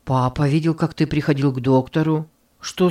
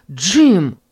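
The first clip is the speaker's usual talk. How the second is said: louder call after a friend walking away; 5 dB louder than usual. Acted. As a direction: call his name to stop him. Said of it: "крикнул Давид". (громко окликает Джима)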